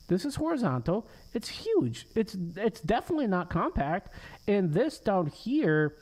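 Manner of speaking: rising disbelief, arguing with the code; frustrated. Real, not acted. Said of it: "I'm getting a little frustrated".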